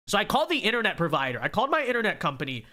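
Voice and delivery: stuffy, blocked nose; congested. Real, not acted. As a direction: speak through a blocked nose. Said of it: "Sorry, I'm a little congested here".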